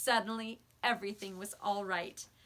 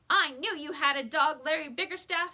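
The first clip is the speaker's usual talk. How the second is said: higher, louder gloating accusation; nosy neighbour gloating at the boy; triumphant; 5 semitones higher, 8 dB louder than usual. Acted. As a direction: crow it like you caught him. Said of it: "she said triumphantly".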